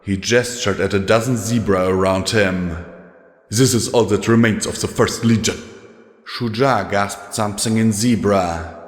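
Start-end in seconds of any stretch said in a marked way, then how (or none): 3.5-5.6 tired, grim soldier's voice; a battle-worn commander, heavy-hearted; weary old legate. Acted. Legate goes on.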